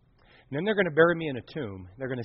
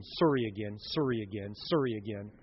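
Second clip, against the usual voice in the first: Canadian "sorry" said "sorr-ee" with a Canadian accent; 5 semitones lower, 7 dB quieter than usual. Shown as a demonstration. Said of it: "Or if you're Canadian".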